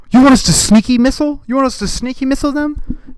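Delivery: aghast staffer repeating the absurd idea; shocked high-pitched disbelief; incredulous aide. Retold or imitated. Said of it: "He's like".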